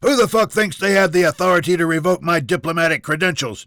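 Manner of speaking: loud, high, indignant challenge; angry bark. Acted. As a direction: bark the question in outrage. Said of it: "Junior barked".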